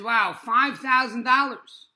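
loud, slow, stunned gasp at the price; shocked wow. Retold or imitated. Patient reading his hospital bill, stunned and loud. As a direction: let the sticker shock hit you. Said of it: "All of a sudden, he says".

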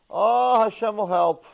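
high, loud, sing-song blessing; imitating a beggar's hearty blessing; mock pious reassurance. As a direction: bless him like a beggar who means well. Poor man reassures him.

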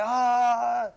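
drawn-out "aah" of irritation; mock aggravated groan-shout; exasperated cry. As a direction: let out a long annoyed "ah". Acted getting under the skin.

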